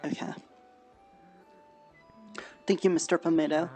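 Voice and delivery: normal talking voice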